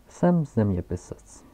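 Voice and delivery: put-on loud, slow, self-important old scholar; old geographer. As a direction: announce your title with pompous weight. Geographer character voice. (hlasitý, pomalý a důležitý starý zeměpisec)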